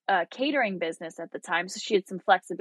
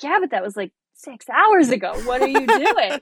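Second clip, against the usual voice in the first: high, louder, exasperated scolding; pushed-up pitch, fed-up with mom; 5 semitones higher, 4 dB louder than usual. Retold or imitated.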